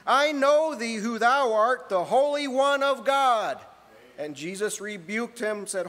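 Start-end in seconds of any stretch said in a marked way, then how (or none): 0.1-3.6 louder, higher demon voice. Acted. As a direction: voice the unclean spirit crying. Demon voice quoted in sermon.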